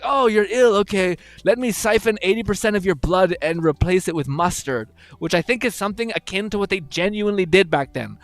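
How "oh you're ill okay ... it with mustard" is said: higher, louder mock-helpful doctor; cheerful old doctor. Old-time doctor offering a mustard cure, higher mock-cheerful voice. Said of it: "And they're like".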